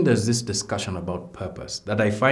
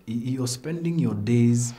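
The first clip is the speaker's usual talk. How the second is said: put-on Nigerian accent; 4 semitones higher than usual. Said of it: "I feel like doing a Nigerian accent here".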